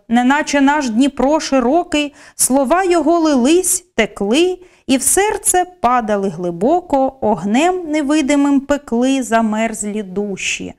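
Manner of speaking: measured, expressive verse reading, slowing at the end; poem recital. Acted. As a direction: read the lines like a poem on stage. Teacher reads Shevchenko poem example.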